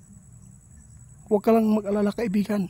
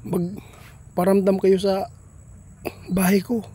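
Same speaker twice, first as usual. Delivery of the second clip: calling out; 3 dB louder, slower than usual. Real, not acted. Calling out to spirit.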